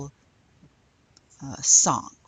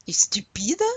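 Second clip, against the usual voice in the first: whispered joke aside; 4 semitones higher, 4 dB louder than usual. Acted. Teacher whispering a cheeky joke to the class. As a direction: breathe it as a playful aside.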